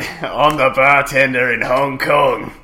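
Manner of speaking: hammy fake Australian accent; bad Australian accent. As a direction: do a cheesy game Australian. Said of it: "that is the worst Australian accent".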